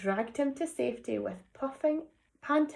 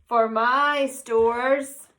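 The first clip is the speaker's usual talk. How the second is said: defiant; 2 semitones lower, 6 dB louder, much slower than usual. Acted. Bruce defends cone.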